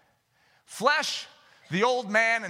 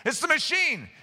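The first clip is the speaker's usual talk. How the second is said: higher-pitched mock excuse; insistent, pitched-up finger-pointing; blame-shifting; 5 semitones higher than usual. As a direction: protest as if passing the blame. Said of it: "hide behind a machine and go".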